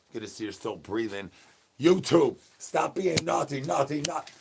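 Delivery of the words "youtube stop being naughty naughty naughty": high teasing scold; playful high-pitched scolding; mock scolding. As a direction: wag a finger in a high voice. Teasing the chat as naughty.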